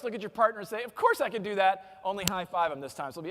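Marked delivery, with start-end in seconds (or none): 0.8-2.0 lightly cocky demonstration; know-it-all confidence, lightly put on; cocky, arrogant. Shown as a demonstration. Speaker modelling the line to say to a partner, cocky and arrogant. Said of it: "arrogant tone of voice".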